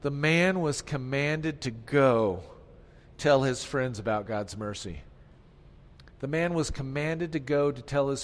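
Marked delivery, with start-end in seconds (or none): 0.0-5.0 slow dictation for note-takers; dictating slowly. Shown as a demonstration. Pastor dictating the fill-in blank, slow. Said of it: "Here's the third fill in the blank".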